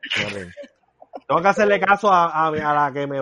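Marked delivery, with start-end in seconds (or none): 0.0-0.5 laughing. Real, not acted. Remeda a Ángel entre risas.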